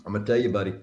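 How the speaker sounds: Southern prank caller's mock threat; lightly acted Southern tough talk; imitated Southern accent. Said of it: "got this real Southern accent".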